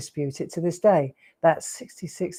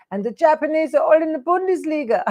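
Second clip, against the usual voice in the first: imitating his mum; 10 semitones higher, 3 dB louder than usual. She's so funny.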